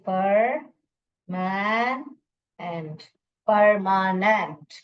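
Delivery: परमानेंट pulled apart with gaps, then blended slowly; sounded-out syllables. Shown as a demonstration. Teacher reading the divided word, परमानेंट slowly sounded out. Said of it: "और फिर मैं इसको".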